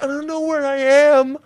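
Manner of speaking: put-on high breathy little-girl voice; mock the helpless girl voice, high; baby-girl voice. Imitating the helpless girl in bed, high voice. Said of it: "they do that voice".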